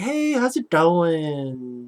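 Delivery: put-on slow, swooping, stretched Valley Girl drawl. Retelling a character actor's bookseller role greeting someone, in a Valley Girl voice. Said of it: "but like Valley Girl thing".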